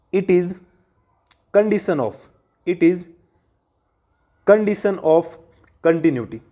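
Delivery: word groups parted by long pauses; slow dictation. Real, not acted. Maths teacher dictates the condition of continuity, haltingly paced. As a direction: dictate it piece by piece. Dictates a heading while writing.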